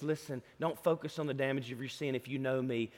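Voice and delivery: soft, low reassuring words; Jesus quietly comforting a burdened believer; tender Jesus. Retold or imitated. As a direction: gently coax them toward forgiveness. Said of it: "but Jesus says this".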